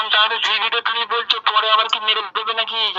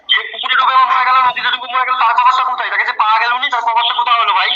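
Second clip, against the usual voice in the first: raised voice, pressing the question; heated loud voice; 3 semitones higher, 4 dB louder, faster than usual. Real, not acted. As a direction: push the question hard and loud. Heated religious argument, raised voice.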